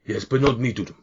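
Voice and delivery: lightly voiced cheery half-orc in broken Common; a hint of a jolly orc bull-handler. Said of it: "another half orc".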